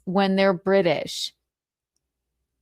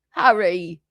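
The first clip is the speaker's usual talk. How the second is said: bad British accent; 2 semitones lower than usual. Shown as a demonstration. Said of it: "the only thing I can say in a British accent".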